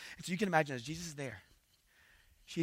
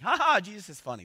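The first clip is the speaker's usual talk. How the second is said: higher, louder "ha ha" put on as a joke; mock amused laugh; 6 semitones higher, 7 dB louder than usual. Preacher showing what the mocking laugh was not, mock amused. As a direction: act out being openly tickled. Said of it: "This isn't like".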